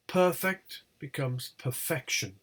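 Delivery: PERFECT on PER, PERFECTION on FEC; stress shift. Shown as a demonstration. Teacher showing attracted stress, shift to FEC. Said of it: "They attract the stress".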